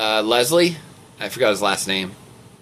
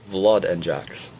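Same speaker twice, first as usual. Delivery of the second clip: 4 semitones lower, slower than usual. Acted. Reader testing the impression again, low trial voice. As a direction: sink the names low and draw them out. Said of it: "what my voice sounds like when I pretend to be".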